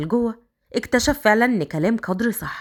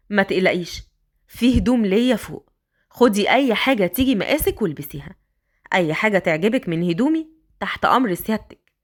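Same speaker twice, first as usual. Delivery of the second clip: lightly lowered voice for Raad; a man coaxing the girl upstairs; Raad, lower man's voice; 3 semitones lower than usual. Acted. Raad urging the young girl, lightly lowered voice.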